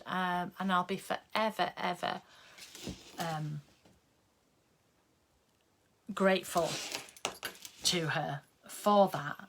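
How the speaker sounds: choked up, with long pauses; fighting back tears while thanking her; getting emotional. Real, not acted. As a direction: voice catching with real emotion. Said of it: "I'm getting emotional".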